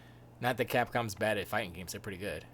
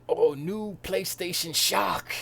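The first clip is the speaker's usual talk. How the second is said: higher, louder, drawn-out headline hype; mock headline; 6 semitones higher, 5 dB louder, slower than usual. Streamer mocking clickbait articles to viewers, overblown mock headline. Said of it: "articles that say".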